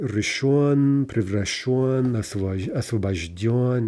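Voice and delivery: ришон, превращён, освобождён with stressed final yo vowel. Shown as a demonstration. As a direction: draw out the last syllable of превращён and освобождён. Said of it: "We keep the stress, we keep the yo".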